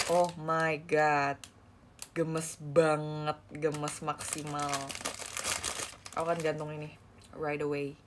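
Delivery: slow, low, soft awestruck murmur; awed murmur. Real, not acted. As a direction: breathe it out in awe. Awed slow murmur after squeal.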